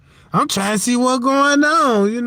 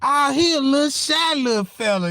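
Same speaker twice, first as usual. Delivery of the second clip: cooing nurse; 5 semitones higher than usual. Retold or imitated. Nurses cooing over baby.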